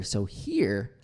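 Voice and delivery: HERE drawn out with a falling tune; stress on HERE. Shown as a demonstration. Coach shows focus, stressing HERE. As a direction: put the weight on HERE. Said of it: "if I stress here".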